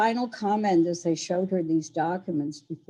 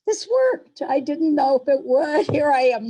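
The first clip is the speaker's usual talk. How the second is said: much higher and louder, thrilled it worked; excited relief; 8 semitones higher, 7 dB louder than usual. Real, not acted. Speaker thrilled her remote talk worked, excited and laughing. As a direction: burst out, delighted and relieved, with a laugh.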